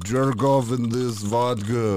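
loud, slow lordly command; loud slow spoiled rich man; haughty rich boss. Acted. Rich guy ordering servant.

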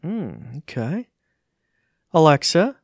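ordinary talk

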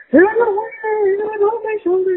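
high, frantic retold cry about the hornet; retold panic. Mom retelling hornet panic to her husband on FaceTime, high frantic cry. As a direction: replay the terror of finding the bug on you. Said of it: "I'm like".

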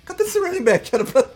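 confused player quote. Retold or imitated. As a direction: act out a baffled lineman. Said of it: "Ele falou". (jogador confuso, voz aguda)

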